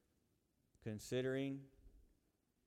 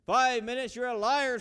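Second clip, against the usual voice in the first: louder, higher incredulous scream; screaming in disbelief; 14 semitones higher, 18 dB louder than usual. Acted. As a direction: hurl it at the demon in disbelief. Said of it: "screams the man".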